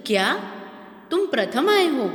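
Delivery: surprised question. Shown as a demonstration. Teacher shows amazement that the student came first, surprised. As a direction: say क्या तुम प्रथम आए हो in disbelief, pitch jumping up. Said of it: "दूसरे के अंदर आश्चर्य सूचक".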